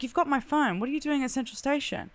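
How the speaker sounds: incredulous. Retold or imitated. She confronts the stranger holding her phone, high and baffled. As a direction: sound thrown by where the phone ended up.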